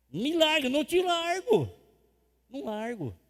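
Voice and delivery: cling on and refuse to let go, building; playful clinging plea. Acted. Believer holding onto the Master's feet, playful mock tug-of-war.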